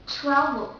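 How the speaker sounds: strong English TR at the start of "travel". Shown as a demonstration. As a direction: say "travel" with a firm TR. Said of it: "the T R in the word travel is much stronger".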